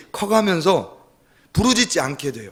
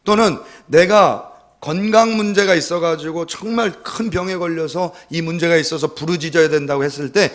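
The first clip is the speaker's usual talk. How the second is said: normal talking voice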